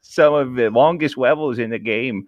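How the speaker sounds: high cutesy uwu voice, giggling; breathy cutesy giggly. Acted. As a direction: read it cute and girly, giggling. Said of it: "I have a short line. I'm only doing this once".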